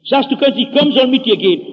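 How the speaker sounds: loud, forceful mock anger; retold cold fury. Pastor challenging a young man, retold cold fury. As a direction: lay down a challenge with heated insistence. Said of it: "Da kriegt die die kalte Wut".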